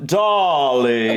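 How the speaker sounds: long drawn-out posh vowels; exaggerated, slow upper-class British accent. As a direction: stretch it like a caricature British aristocrat. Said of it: "it's like the speech gets slower".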